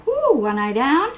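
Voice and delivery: playful swooping delivery, gasp in between; silly put-on voice. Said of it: "Why am I talking like this?".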